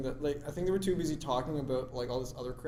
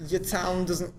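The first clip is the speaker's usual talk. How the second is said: higher, botched Cockney attempt; Cockney accent; 4 semitones higher, 4 dB louder, slower than usual. Shown as a demonstration. Second go at the sentence, failed Cockney accent. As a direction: try Cockney and give up midway. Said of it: "I can't do Cockney".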